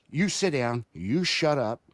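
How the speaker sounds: retold bossy order, mildly forceful; lightly imitating a brusque official; mean chairwoman. Chairwoman to a citizen at the hearing, mean and brusque. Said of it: "mean, just a mean person".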